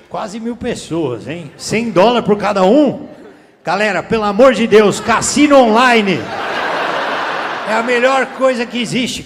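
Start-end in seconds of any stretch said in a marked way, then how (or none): 1.6-9.2 a loud mock sales pitch; hyped shout. Real, not acted. Shouting hype at crowd.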